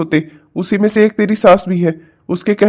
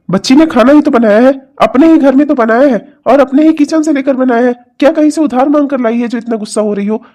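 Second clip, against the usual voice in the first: higher-pitched, exasperated reasoning; remonstrating; 4 semitones higher than usual. Acted. Father-in-law defending the girl to his angry wife, remonstrating. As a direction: protest on her behalf, mildly exasperated.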